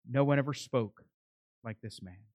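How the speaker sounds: hushed amazement, fading to very soft; awed. Retold or imitated. Officers answering the religious leaders, in hushed awe. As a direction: trail down softly in wonder. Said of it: "There is an awe and an amazement in their response".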